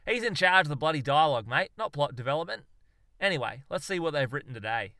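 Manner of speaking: loud, quick brush-off easing down; dismissive Aussie. Acted. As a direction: wave off the doubt. Darwin defends the kangaroo.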